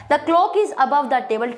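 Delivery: each word slow and separate, dictating to a class; slow teacher dictation; slow model sentence. Shown as a demonstration. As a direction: spell it out slowly like a teacher. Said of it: "table के ऊपर है clock".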